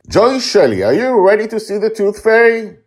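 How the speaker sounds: high, loud captain's roll call; rally the crew like a pirate captain; pirate dad calling his daughter to adventure. Acted.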